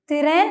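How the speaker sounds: "തിറേൻ" with a short vowel between t and r; Turkish pronunciation. Shown as a demonstration. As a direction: say "തിറേൻ" as two syllables, tı-ren. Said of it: "ഇ എന്നൊരു sound ഉൾപ്പെടുത്തി".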